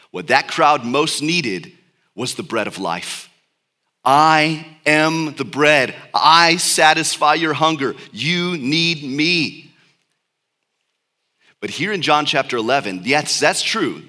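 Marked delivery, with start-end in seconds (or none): 4.0-9.7 emphatic Jesus. Acted. Pastor voices Jesus's words.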